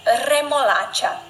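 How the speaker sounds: remolacha slowly with a rolled R; slow trilled R. Shown as a demonstration. Teacher repeats remolacha slowly, strong rolled R. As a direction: stretch remolacha and roll the R. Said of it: "Primeiro o R forte".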